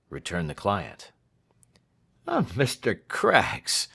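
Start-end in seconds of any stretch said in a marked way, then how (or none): 2.3-3.9 higher, drawn-out sigh of relief; much relieved. A narrator's reading. Lawyer turning to his partner, much relieved. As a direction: let the worry go on a long "Ah". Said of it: "said Snitchey, much relieved".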